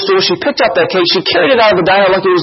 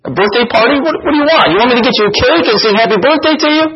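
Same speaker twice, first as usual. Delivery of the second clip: sharp, high, fast mocking jeer; nasty tone; 8 semitones higher, faster than usual. Friend mocking the woman's birthday, nasty and fast. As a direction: sneer it at her, rattling through the last line. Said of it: "in a rather nasty tone".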